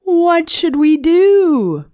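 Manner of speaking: lightly voiced worried kids calling out; children crying out. A narrator's reading. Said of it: "The children cried out".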